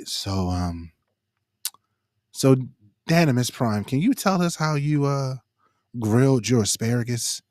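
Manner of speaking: low soft public radio interviewer; public radio host. Retold or imitated. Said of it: "it's the N P R voice".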